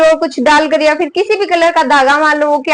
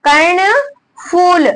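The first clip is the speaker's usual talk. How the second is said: slow dictation; much slower than usual. Shown as a demonstration. Dictating word to write.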